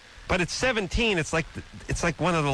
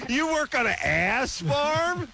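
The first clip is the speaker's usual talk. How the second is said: holding tongue with fingers; 11 semitones higher, slower than usual. Shown as a demonstration. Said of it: "hold your tongue and say".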